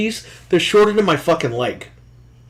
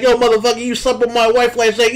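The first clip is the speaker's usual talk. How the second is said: mock Roman Reigns; 6 semitones higher than usual. Host imitating Roman Reigns calling out a rival, raised mock trash talk. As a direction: play a heel calling out his rival, pitched up. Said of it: "I wanna see Roman Reigns come out and be like".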